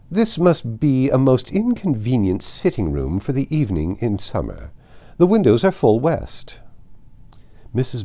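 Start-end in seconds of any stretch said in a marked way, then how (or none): 0.1-6.6 a hint of an imperious aristocrat, raised and louder; lightly voiced proud old lady, looking down on the room; haughty grand lady. Lady Catherine inspecting the room.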